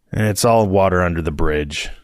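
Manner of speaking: words forced through clenched teeth. Acted. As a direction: grit your teeth and push it out. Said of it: "I say through clenched teeth".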